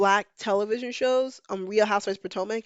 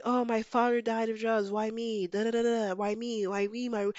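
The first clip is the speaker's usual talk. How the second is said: mock self-pity; 4 dB quieter than usual. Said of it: "in a very "why me" situation".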